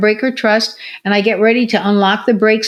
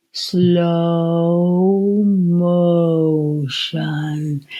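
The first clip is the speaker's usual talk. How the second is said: each word stretched very slowly and lower; drawn-out slow motion; 4 semitones lower, much slower than usual. Retold or imitated. Showing a patient how to say slow motion, drawn out. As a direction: drag the words out like slow motion. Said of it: "I drew it out even longer".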